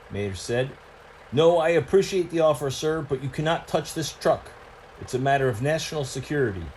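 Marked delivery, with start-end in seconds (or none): 1.3-6.7 brisk, firm agent voice, quickening; lightly voiced official refusing help; firm secretive truck. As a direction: shut him down politely.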